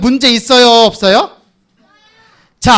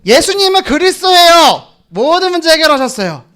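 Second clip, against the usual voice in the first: pitched up high, proud and declared; model reply; 6 semitones higher than usual. Pretend. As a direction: proclaim it brightly and high. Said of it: "너 뭐라고 얘기해야 돼".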